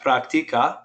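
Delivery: practica with the weight on "ti"; stress on the I. Shown as a demonstration. Teacher asking the class to say it back, practica stressed on TI. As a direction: model practica as prac-TI-ca. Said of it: "put the stress on that I".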